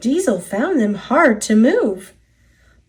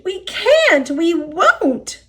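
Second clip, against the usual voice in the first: much higher, stubborn whine; whiny refusing cars; 8 semitones higher, slower than usual. A narrator's reading. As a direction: whine it back defiantly. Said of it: "the cars groaned".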